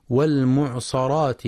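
المعصرات said with a after the sad; fatha on sad. Shown as a demonstration. Teacher shows a common mistake, fatha on sad in والمعصرات. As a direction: say mu'saraat instead of mu'siraat in والمعصرات. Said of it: "ويقرأها بالفتح".

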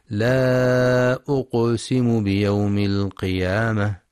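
the qaf in أقسم released with an echoing bounce; qalqala on qaf. Shown as a demonstration. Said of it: "لقلقلة القاف الساكنة".

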